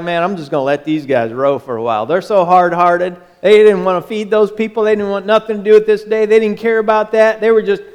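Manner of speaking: fast, offhand inner voice; breezy aside, let them row; lightly voiced, amused Jesus; Jesus' musing. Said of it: "I don't know if he was like".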